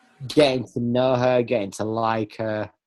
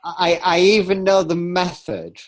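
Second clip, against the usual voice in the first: laughing; 6 semitones higher, 4 dB louder than usual. Real, not acted. Teasing his secret knowledge.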